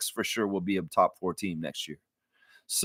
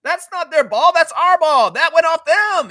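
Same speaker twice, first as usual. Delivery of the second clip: much higher, louder mock yelling at the refs; imitating a yell; 8 dB louder than usual. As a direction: play the angry player barking at the refs. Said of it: "You saw Scotty yelling at them".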